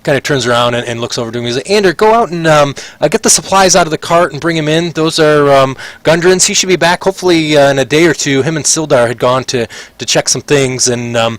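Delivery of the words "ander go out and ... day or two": higher, brisk instructions to a clerk; raised merchant orders; shopkeeper giving orders. Acted. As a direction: send the boy off quickly.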